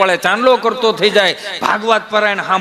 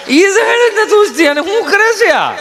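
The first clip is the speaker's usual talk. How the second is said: exasperated outburst; 11 semitones higher, 4 dB louder than usual. Real, not acted. Exasperated outburst at comedy bit.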